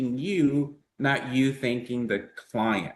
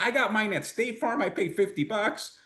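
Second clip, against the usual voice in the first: higher pitched, mock dismissive friend; scoffing friend Jose; 10 semitones higher than usual. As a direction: play the know-it-all buddy brushing it off. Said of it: "He's gonna be like".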